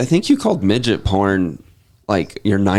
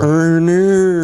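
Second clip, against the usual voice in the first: mock Australian; 8 semitones higher, 4 dB louder than usual. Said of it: "They're like".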